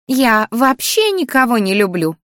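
the grumpy flower scolding Melissa in a high whiny wail; grumbling flower. Acted. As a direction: lament like a fussy old plant. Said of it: "хмыкнуло растение".

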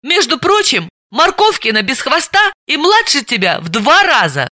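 firm, flat-falling «прочим», cutting in; blunt rebuttal; categorical interruption. A narrator's reading. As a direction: shut her friend down decisively. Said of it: "категорически её перебила".

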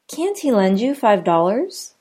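"Can't" stressed, question rise. Shown as a demonstration. Teacher demoing stressed can't in a question. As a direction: hit "Can't" firmly. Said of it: "Notice how can't is stressed".

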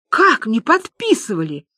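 stunned, disbelieving question; aghast. Acted. Люба challenges the businessman's denial, aghast. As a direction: ask as if the breath caught. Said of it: "У Любы перехватило дыхание".

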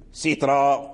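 "سترا" with no n, last vowel held; pausal long alif. Shown as a demonstration. Teacher showing the word when we stop, "سترا" ending in long "aa". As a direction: end "سترا" on an open "aa". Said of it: "إلى وقفنا".

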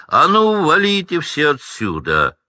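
loud, high bellow; booming Hagrid. Acted. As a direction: clear the room with a roar. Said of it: "громыхнул чей-то голос". (Хагрид громыхает на всю лавку)

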